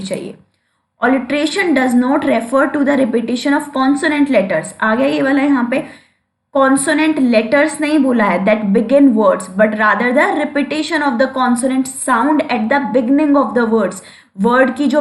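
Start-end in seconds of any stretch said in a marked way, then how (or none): 1.0-4.7 slow, deliberate reading of the definition; dictating pace; slow dictation. Shown as a demonstration. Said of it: "teacher dictating definition slowly". 9.4-13.9 slow, deliberate reading of the definition; dictating pace; slow dictation. Shown as a demonstration. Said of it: "teacher dictating definition slowly".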